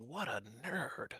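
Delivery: mumbled, muttered under the breath. Narrator voicing a character as he passes the doors: muttered under his breath. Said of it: "he just mutters slightly under his breath".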